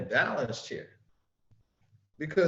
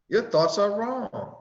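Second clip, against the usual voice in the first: higher and firmer; raised fervent; 4 semitones higher, 4 dB louder, slower than usual. Shown as a demonstration. Preacher rereading to the congregation, raised and fervent. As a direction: proclaim it. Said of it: "Divine Instruction eight".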